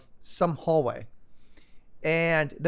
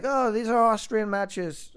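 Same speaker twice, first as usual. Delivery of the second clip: slow, higher attempt at an Austrian accent; loose Austrian accent; 6 semitones higher, slower than usual. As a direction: imitate an Austrian, accent slightly off. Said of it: "not a French accent, but".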